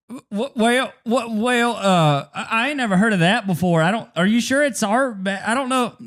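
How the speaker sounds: mock flustered mechanic stammering; flabbergasted clerk. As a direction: stutter and stall like a baffled counter guy. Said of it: "And the guy goes".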